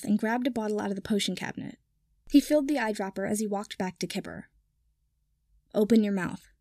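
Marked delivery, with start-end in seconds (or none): 5.7-6.5 stern. Acted. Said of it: "he said sternly".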